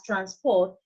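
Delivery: transPORT, weight on the last syllable; "transport" as a verb, stressing "port"; stress on second syllable. Shown as a demonstration. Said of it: "to the second".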